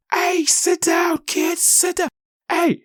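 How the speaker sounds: very high, slow put-on white-guy voice; mock white guy yelling. Fan behind the boy yelling at him, very high mock white-guy whine. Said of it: "And he just yelling at me".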